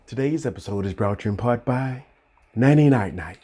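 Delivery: low, soft sponsor read. Shown as a demonstration. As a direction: read the sponsor line gently. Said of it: "retake in ad voice".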